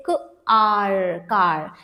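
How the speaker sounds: क, then a long आर, blended into कार; sounding out. Shown as a demonstration. Teacher showing R changes the vowel, क and आर sounded apart. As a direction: draw out each sound before joining them. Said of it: "vowel का sound change हो रहा है".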